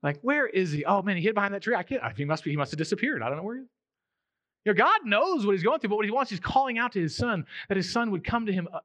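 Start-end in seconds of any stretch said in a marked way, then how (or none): 0.2-3.7 mock searching. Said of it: "As if God doesn't know".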